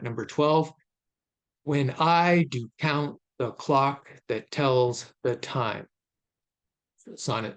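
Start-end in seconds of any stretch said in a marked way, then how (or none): 1.6-5.9 "When I do count the clock that tells the time" slowly, stressing I, count, clock, tells, time; regular iambic stress. Shown as a demonstration. Lecturer reads Shakespeare's line as a meter example, measured iambic stress on "When I do count the clock that tells the time". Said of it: "So an example here from the first line".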